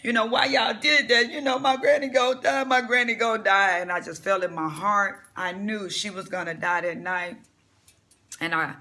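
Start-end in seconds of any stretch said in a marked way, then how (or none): 0.0-3.8 retold crying plea. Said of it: "I was crying".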